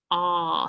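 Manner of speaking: "ah" as a drawn-out short vowel; teacher's isolated "ah" sound. Shown as a demonstration. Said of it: "the O says".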